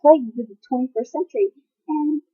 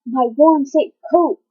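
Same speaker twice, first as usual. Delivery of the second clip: dramatic slam-poetry reading with weighted pauses; poetry recital; 4 dB louder than usual. Acted. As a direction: perform the poem with measured emphasis.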